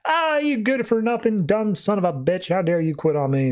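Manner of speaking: half-hearted irate outburst; mock angry boss. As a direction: imitate a boss chewing someone out. Boss yelling at quitting employee.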